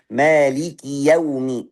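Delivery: slow demo of "Maliki yaumi" with no stretch before "yau"; short vowel, not lengthened. Shown as a demonstration. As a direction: recite "Maliki yaumi" slowly, "ki" kept short. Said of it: "Berarti nggak boleh dipanjangkan".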